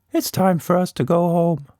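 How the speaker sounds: lightly voiced monster, calm; a creature gently ending the day. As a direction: monster telling Tilda it's time. Monster staring at rainbow.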